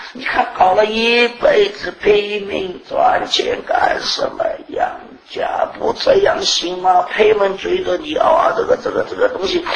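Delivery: pleading, pitch leaping high, voice near tears; impassioned pleading. Retold or imitated. Urging the brother to act, impassioned near-tearful shouting. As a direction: press him hard, shouting and half crying.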